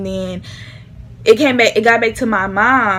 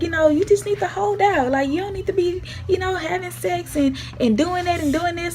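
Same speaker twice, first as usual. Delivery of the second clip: calm granny; 8 semitones higher, 6 dB quieter than usual. Retold or imitated. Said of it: "my granny was like".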